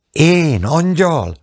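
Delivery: high, drawn-out mock-amazed question; laughing disbelief. A narrator's reading. Young wife to husband who called her an angel, lightly laughing disbelief. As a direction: lilt it high and slow, lightly amused. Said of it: "Kacagott Anka".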